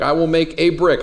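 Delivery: "a" stressed, said as a full "ay". Shown as a demonstration. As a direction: pick out the word "a" as "AY". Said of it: "where you put the emphasis".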